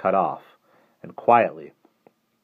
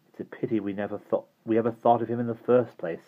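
fierce; 4 semitones higher than usual. Acted. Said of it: "Simon said fiercely".

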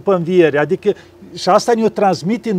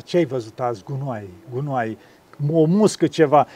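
low, much softer bumblebee voice; grumbling bumblebee; 5 semitones lower, 5 dB quieter than usual. Pretend. Bondarul răspunzând morocănos, jos și încet. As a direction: mumble like a dull bumblebee. Bumblebee answers what it saw.

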